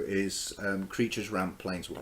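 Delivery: slow, broken into items. Real, not acted. Player re-explaining the top row to a co-player, slowly. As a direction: spell it out slowly, item by item. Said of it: "Say it again slowly".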